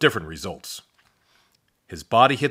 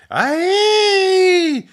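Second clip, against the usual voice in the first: loud, much higher yelp; high panicked cry; 9 dB louder than usual. A narrator's reading. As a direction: shriek as you're launched. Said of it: "Drew said".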